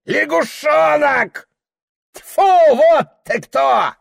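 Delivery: high squealing shout, slow; father shrieks at his son; shrieking insult. A narrator's reading. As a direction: shriek it like a spiteful old man. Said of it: "взвизгнул он".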